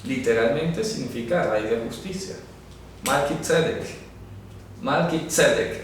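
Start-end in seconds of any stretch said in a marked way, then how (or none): 3.1-5.8 Melquisedec as malki-TSE-dek, said for learners; careful Hebrew Melquisedec with a TS sound; correct pronunciation. Shown as a demonstration. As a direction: model Melquisedec twice with stress on TSE. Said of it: "No se dice Malquisedec".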